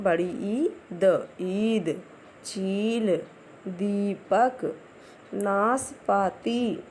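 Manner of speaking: put-on slow, syllable by syllable for small children; clear word reading. Shown as a demonstration. Teacher showing class one the long-ee words, slow and clear. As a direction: read each word out slowly and clearly. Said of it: "तो आइए देखते हैं हम लोग।".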